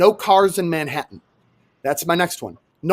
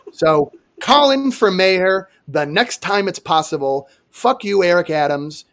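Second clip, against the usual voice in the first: usual speaking voice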